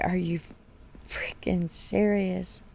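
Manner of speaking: slow, hushed disbelief whisper; shocked whisper. Retold or imitated. Mother whispering her disbelief to her daughter, slow and hushed. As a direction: breathe it out, stunned.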